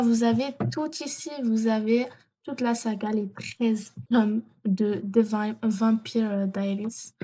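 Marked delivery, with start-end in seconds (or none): 5.0-7.1 halting French-accented English; shaky English accent. Real, not acted. Vlogger attempting an English series title for viewers, clumsy French-accented English. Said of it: "Excusez mon, mon accent bancal, euh, d'anglais".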